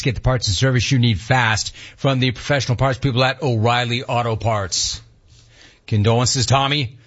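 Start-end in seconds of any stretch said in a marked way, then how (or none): 0.0-5.0 brisk sponsor read. Acted. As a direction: read the radio promo briskly, rolling straight through. Reads a sponsor spot.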